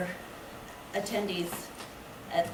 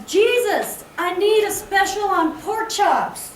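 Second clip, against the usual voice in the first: higher and louder, calling up to heaven with a laugh; a loud, laughing plea over the supermarket aisle; raised voice; 11 semitones higher, 10 dB louder, slower than usual. Acted. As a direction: cry out to Jesus in the meat aisle, half laughing. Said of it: "she raises her voice and says".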